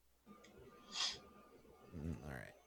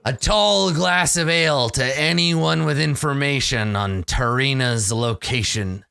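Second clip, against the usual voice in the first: mildly blustering pirate announcement; loud blaggart. Acted. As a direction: address the whole bar with light bluster. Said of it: "he likes being loud".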